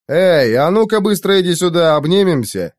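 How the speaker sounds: shout. Acted. Hero calls the shy girl over, cheerful shout. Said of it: "крикнул я ей".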